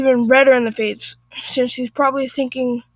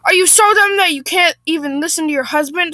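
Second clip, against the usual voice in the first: mildly raised, higher voice; feigned anger; 4 semitones higher, 3 dB louder than usual. Acted. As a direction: scold with put-on anger. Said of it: "raising my voice and appearing angry".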